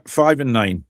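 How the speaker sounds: slow, drawn-out bingo call; bingo caller. Acted. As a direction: call it like a bingo hall host. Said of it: "Sounded like a bingo caller there".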